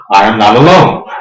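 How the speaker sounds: a loud, triumphant repeat. Shown as a demonstration. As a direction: proclaim it again for all to hear.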